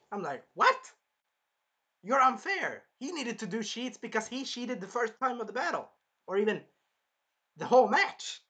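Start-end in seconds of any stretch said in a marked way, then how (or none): 0.5-0.9 sharp, loud, very high yelp; mock-shocked outburst; incredulous. Reacting indignantly to the accusation. 2.0-8.4 higher-pitched aggrieved rebuttal; mock outrage at unfairness; indignant protest. Arguing back at the accusers.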